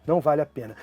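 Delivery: a teacher closing the sonnet's last line; poem recital. Acted.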